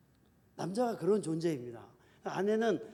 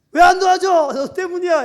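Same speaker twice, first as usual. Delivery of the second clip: much louder and higher accusing shout; angry blaming yell; 11 semitones higher, 16 dB louder than usual. Shown as a demonstration. Wife shouting blame at her husband, hammed-up angry yell. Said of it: "이렇게 말하면 절대 안 된다는 거예요".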